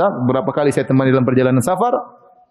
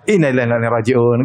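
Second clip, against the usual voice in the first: said casually; 5 semitones lower, faster than usual. Retold or imitated. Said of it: "gitu, ngomong santai".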